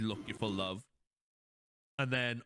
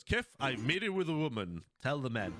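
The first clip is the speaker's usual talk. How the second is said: mock proud Zap; 3 semitones higher than usual. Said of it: "Zap literally goes".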